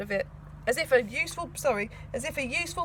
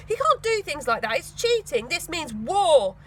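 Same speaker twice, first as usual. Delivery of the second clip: louder, slow on this means war; determined; 3 semitones higher, 5 dB louder, slower than usual. Acted. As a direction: declare war firmly. Tina declares war.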